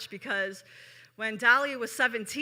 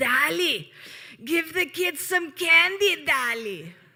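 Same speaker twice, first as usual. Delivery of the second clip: put-on raspy smoker's voice, loud and slow; 6 semitones higher, 5 dB louder than usual. Recalling the candy counter, quoting Granny calling to Dolly in a raspy voice. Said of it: "her voice was like super raspy from all of the uh, smoking".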